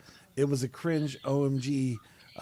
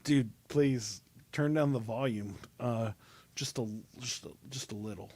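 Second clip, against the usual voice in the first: fading softer and softer to an almost inaudible end; asking son to quiet down; 3 semitones lower, 6 dB quieter than usual. Retold or imitated. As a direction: ask for less noise, letting the voice shrink away. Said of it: "It was like".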